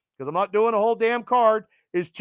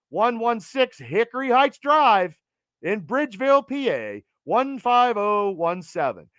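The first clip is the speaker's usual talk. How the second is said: radio voice. Pretend. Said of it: "It's my radio voice".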